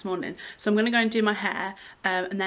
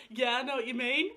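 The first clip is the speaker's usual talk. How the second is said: laughing imitation; 4 semitones higher than usual. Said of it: "You're like".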